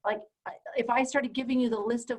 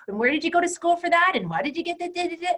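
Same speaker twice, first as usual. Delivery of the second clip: higher, louder, fast prying questions; mock interrogation; 8 semitones higher, 3 dB louder, faster than usual. Coach imitating doubters grilling her credentials, high and fast. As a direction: pepper her with nosy questions. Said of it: "I would have people go".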